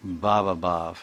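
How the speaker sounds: bhava with a short A, then bhav with a long A. Shown as a demonstration. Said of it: "Short A, bhava. And long A, bhav".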